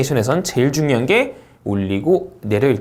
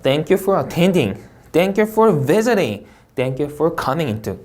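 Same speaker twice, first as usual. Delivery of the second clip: each "Thank you for" phrase as one slow chunk; linked phrasing; 3 semitones higher, much slower than usual. Shown as a demonstration. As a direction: join "Thank you for" to the next word. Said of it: "묻고 읽으셔야겠고". ("Thank you for"를 뒷말과 묶어 읽기)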